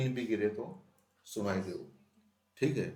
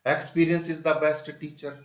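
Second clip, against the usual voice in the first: slow, loud, word by word; spaced dictation reading; 5 semitones higher, 7 dB louder, much slower than usual. Shown as a demonstration. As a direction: read it out slowly for the class. Teacher reads example sentence slowly.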